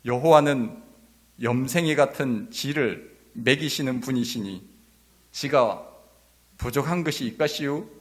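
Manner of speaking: lightly imitated Chungcheong dialect. Shown as a demonstration. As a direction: do a Chungcheong version, pausing between phrases. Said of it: "충청도 버전은". (띄엄띄엄 말하는 충청도 사투리 흉내)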